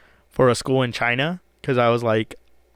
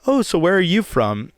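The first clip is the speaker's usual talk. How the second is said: higher-pitched British interviewer quote; English interviewer; 6 semitones higher than usual. Retold or imitated. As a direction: lightly imitate a curious British interviewer. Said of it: "A British accent".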